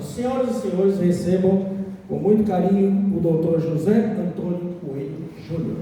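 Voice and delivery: announcer presenting the guest speaker; grand entrance announcement. Acted. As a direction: build up to the name, ceremonial. MC introduces the speaker on stage.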